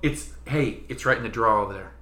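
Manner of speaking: dad's New Jersey "draw" for drawer; lightly done New Jersey accent. Retold or imitated. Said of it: "totally New Jersey".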